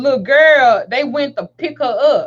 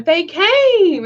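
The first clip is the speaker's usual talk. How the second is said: lightly voiced child, pitched higher; child announcing; 6 semitones higher than usual. Daughter telling mother the police arrived, announcing. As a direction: retell it as the child's drawn-out announcement. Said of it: "She told me".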